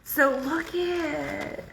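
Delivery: high, tight voice on the edge of tears; a real emotional wobble, held together; teary voice. Real, not acted. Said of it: "I'm so emotional sometimes".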